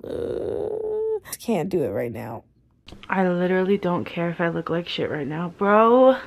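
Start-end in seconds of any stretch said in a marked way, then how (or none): 0.0-2.4 barely voiced, much softer and lower, drained by real pain; faint, worn-out voice of someone really hurting; talking through pain. Real, not acted. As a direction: struggle to get the words out through the pain. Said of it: "I can't even talk right now".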